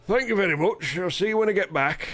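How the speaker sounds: put-on Yorkshire accent. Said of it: "lose a bloody Yorkshire accent".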